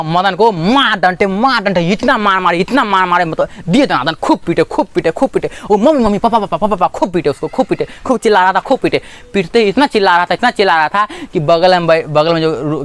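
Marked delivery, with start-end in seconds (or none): 5.8-6.9 high imitated cry of a beaten child. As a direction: wail for mummy and papa, higher. Beaten boy crying out. (पिटते बच्चे की नकली पुकार)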